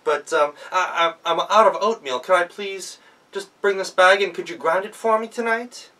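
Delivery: put-on nervous young woman begging politely; timid girl. Girl at the miller's door, stammering a polite plea.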